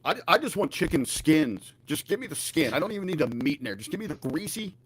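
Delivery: crackly, distorted mic audio; crackling mic. Real, not acted. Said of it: "your mic is crackling just a little bit".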